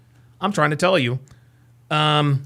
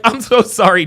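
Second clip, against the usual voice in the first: raised, higher voice while retelling; yelling; 4 semitones higher, 5 dB louder than usual. Real, not acted. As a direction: get carried away and too loud. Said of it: "Devin just said I'm yelling".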